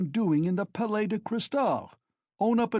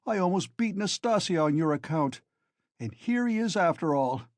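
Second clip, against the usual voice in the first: much higher, loud furious scolding; angry; 8 semitones higher, 4 dB louder than usual. A narrator's reading. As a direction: berate him like a furious friend. Razumihin angrily confronting Raskolnikov.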